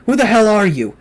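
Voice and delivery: high, loud enraged demand; in a rage. A narrator's reading. About to attack the creature, enraged shout. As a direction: hurl the question at him furiously. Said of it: "in a rage".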